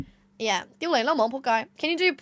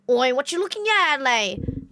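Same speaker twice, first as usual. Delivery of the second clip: put-on Aussie eshay challenge, pitched up; eshay accent. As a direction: heckle like an eshay. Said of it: "try and speak like them".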